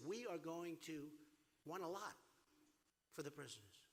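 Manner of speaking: mock demand. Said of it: "they said".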